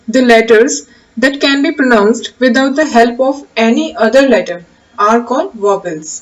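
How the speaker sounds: slow, measured reading of a definition; slow dictation. Acted. Teacher dictating the definition slowly to the class. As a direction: read it out slowly so students can write.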